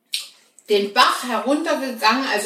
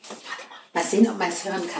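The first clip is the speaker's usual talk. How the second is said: leises Flüstern; flüstern, damit man lauscht; geflüstert; 5 dB quieter, faster than usual. Real, not acted. Lauscht auf Brotgeräusch. (leise flüsternd)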